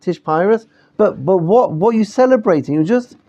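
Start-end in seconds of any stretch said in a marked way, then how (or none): 0.0-0.7 higher-pitched Polish Hasidic "Pyrus" with an eye vowel; Polish Hasidic accent. Retold or imitated. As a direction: repeat "Tish Pyrus" in a Polish accent, lifting at the end. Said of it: "So the Hasidim call this".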